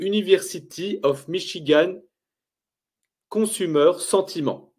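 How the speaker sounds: English words in a thick French accent; bad English accent. Real, not acted. Trader names the American index to viewers, in a bad French accent. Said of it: "cet accent pourri".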